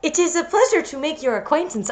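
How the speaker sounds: weak attempt at a Japanese accent; badly faked Japanese accent; mock Japanese accent. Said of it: "I can't do a Japanese accent very well".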